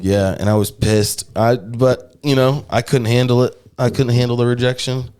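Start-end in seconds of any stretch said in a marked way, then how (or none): 0.0-1.2 unvoiced half-joking whisper; whispered confession. Real, not acted. Admitting to his friend he was upset, whispered. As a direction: hush it like a secret.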